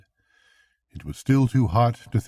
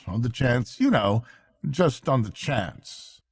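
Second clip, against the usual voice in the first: lightly raised voice for the worried Rat; a hint of concern, voice a little higher; Rat, kindly but worried; 4 semitones higher than usual. Rat telling Mole of the otters' trouble, lightly worried.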